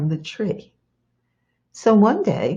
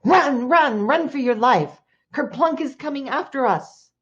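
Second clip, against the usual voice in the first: high, urgent alarm call; storytelling shout of fleeing animals; panicked shouting; 6 semitones higher than usual. A narrator's reading. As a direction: cry out a frantic warning to everyone.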